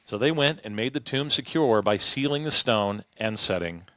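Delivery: measured public Bible reading, lifted at phrase starts; scripture reading. Acted. Host reading the Gospel account to co-hosts, clear narration. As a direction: read the passage aloud to the group. Reads the Bible passage aloud.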